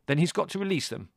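high, loud sharp order; barked. A narrator's reading. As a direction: bark it as a demand. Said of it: "barked Larry".

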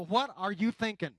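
rising from puzzled to a loud, exasperated outburst; frustrated complaint to God. Retold or imitated. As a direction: build it until you're fed up and shouting at God. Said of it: "You go".

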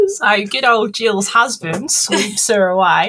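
slow, hammed-up Aussie telling; drawn-out comic Australian; mock Australian accent. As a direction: keep up the broad Australian joke voice. Carries on the joke Australian accent.

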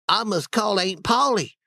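put-on worried child voice. Sid voiced.

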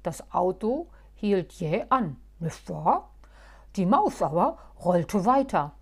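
loud, steady explaining; outwardly calm. Acted. Muff calmly explaining his trick to Halbschuh. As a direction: reason it out calmly. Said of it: "äußerlich ruhig und sprach".

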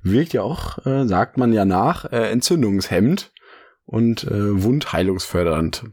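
vorsichtig sprechen, Mund geschont; nach Weisheitszahn-OP. Real, not acted. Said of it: "meine Mundhöhle schonen". (schonend, nach der Zahn-OP)

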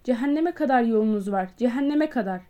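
a doctor yelling at departing guests, tearful; tearful cry. Acted. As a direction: yell after them, almost crying. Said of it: "ağlamaklı bir sesle haykırdı".

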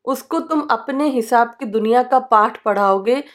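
measured spoken-word poetry; poem recital. Acted. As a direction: poetic recitation with a falling close. Recites lines of her poem.

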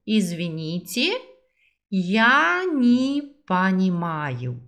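slow, drawn-out Russian for learners; slow model repeat. Shown as a demonstration. Teacher slowly models the phrase for students to repeat, drawn out. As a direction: stretch each syllable so students can copy. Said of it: "Vamos juntos?".

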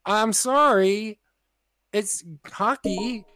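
slow, drawn-out sorry; stretched-out, halting self-defence; defensive apology. Retold or imitated. Acted defensive apology to mom.

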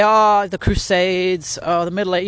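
high, slow, brushing-it-off voice; mock offhand dismissal; dismissive excuse. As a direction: wave it away like old news. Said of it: "you could say".

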